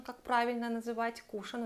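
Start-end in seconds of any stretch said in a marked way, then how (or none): 1.2-1.6 "кушон" stressed on the У; stress on first syllable. Shown as a demonstration. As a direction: pronounce "кушон" as КУ-шон. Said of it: "ударение на, на букву У".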